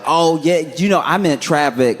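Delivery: high-pitched, scrambling excuse; acted sheepish cover-up; mock backpedalling. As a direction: cover a caught lie, pitched well up. Backpedalling on a caught lie.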